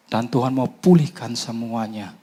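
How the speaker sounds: normal talking voice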